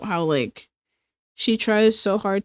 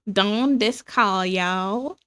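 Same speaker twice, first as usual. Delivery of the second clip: American drawl; much slower than usual. Retold or imitated. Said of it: "With the American drawl".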